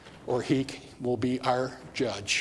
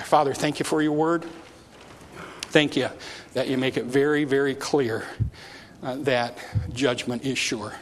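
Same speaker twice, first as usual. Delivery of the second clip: prayer. Real, not acted. Leads closing prayer.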